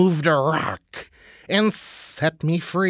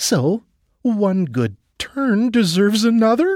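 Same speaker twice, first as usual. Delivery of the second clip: hopeful, expectant tone; 4 semitones higher than usual. A mouse answers the snake it freed from under a rock: hopeful. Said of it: "The mouse said hopefully".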